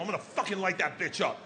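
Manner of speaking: ranting, pitch pushed up a little; mock-furious father tirade. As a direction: vent like a furious dad. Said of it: "I lost my shit".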